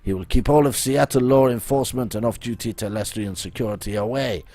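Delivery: put-on theatrical French-accented schemer. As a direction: announce the plan in a hammy French accent. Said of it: "my accent".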